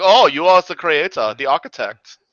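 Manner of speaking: mock German admirer; German accent. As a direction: put on an impressed German accent. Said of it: "every time a German accent comes out".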